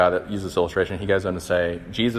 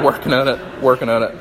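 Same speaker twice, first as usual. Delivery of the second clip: laughing it off, louder; 2 semitones higher, 4 dB louder than usual. Real, not acted. Preacher laughing off his own cracking voice. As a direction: chuckle through a self-joke.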